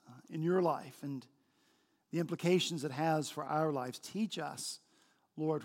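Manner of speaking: low, soft congregational prayer; subdued spoken prayer to God. Real, not acted.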